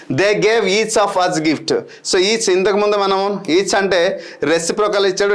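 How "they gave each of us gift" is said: slow question reading. Shown as a demonstration. Teacher reads out quiz question.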